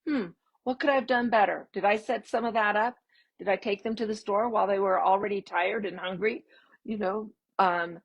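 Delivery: light, quick, curious musing. Shown as a demonstration. Parent rethinking a child's meltdown, gently curious. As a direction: wonder aloud with no anger. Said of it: "Do you hear the tone of my voice?".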